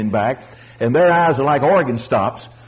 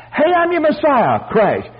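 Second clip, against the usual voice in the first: very high, hammed-up calling out; mock self-announcement; 11 semitones higher than usual. Preacher mimicking what Jesus didn't say, high mock hollering. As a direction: parody someone hailing the crowd in a high voice. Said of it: "He wasn't running around saying".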